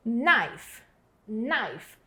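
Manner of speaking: knife said as "naif", no K sound; knife sem o K, começa com N; silent K. Shown as a demonstration. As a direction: start knife straight on the N. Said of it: "Esse K não tem som".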